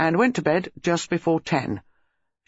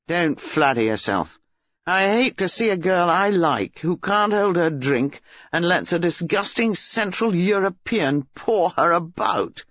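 put-on disgusted boyfriend in a quarrel; scornful young man; 3 semitones higher than usual. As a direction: throw the accusation back with contempt.

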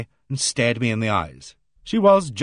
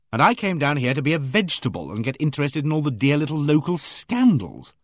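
exasperated; 3 semitones higher than usual. Acted. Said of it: "Oh, hell".

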